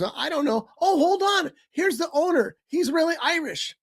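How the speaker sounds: lightly voiced counter girl, pitched high; girl behind the counter. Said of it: "the girl behind the counter is".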